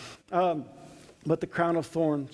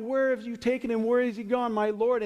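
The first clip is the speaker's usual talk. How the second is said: crying out; 5 semitones higher than usual. Acted. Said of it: "And she's crying out".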